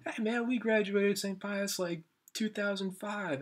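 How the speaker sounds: high, slow mock bro voice, slurred and friendly; a drunk alum drawling out his class year; imitating drunk guys. A drunk alum introduces himself to strangers, drawling. Mimicking drunk alumni greeting.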